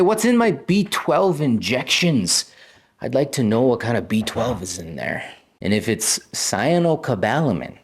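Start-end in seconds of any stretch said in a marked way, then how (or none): 0.0-5.2 acted patient question. Viewer told to ask the doctor about injections, acted patient question. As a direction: play a patient pointedly asking about an injection.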